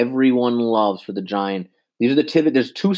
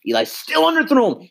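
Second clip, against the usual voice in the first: much higher, incredulous repeat; exasperated disbelief; 13 semitones higher than usual. Real, not acted. Fan replays Eli's bad throw, incredulous and much higher.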